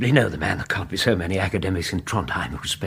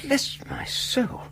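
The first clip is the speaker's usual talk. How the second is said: shocked whisper; 6 dB quieter, slower than usual. Acted. Startled by dripping parcel.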